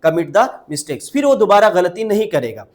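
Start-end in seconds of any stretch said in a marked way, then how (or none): 0.1-1.1 words spaced out slowly for learners; slow dictation pace; slow model phrase. Shown as a demonstration. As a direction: say it slowly so students can repeat. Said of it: "क्या लगाते हैं?".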